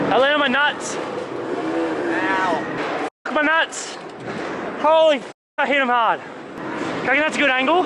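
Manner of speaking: high, strained voice in real pain; talking through sharp pain; just hit in the groin. Real, not acted. In pain after the crash.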